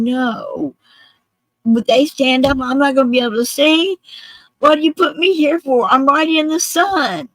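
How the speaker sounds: high, loud indignant complaint; loud angry outburst. Retold or imitated. Veteran stuck in the heat complaining, loud and angry. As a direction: re-enact an angry man's cantankerous protest. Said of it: "He's very loud. He's very angry".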